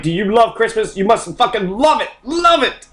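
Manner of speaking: insistent mock interrogation, jumping high on the last words; mock demanding zealot. Host mimics a pundit policing love of Christmas, mock insistent.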